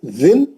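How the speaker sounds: touch the tongue to start जिन; careful जिन with a clean short n. Shown as a demonstration. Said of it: "जबान लगा के".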